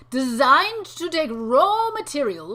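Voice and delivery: slow, loud, grand narration; dramatic reading. Pretend. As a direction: read it like a movie trailer. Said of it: "read it in a dramatic way".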